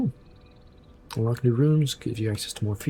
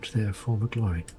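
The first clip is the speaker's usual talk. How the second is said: courtly, flattered spirit of the tower; formal, dramatic welcome from an awakened protector; ancient tower guardian lady. Acted.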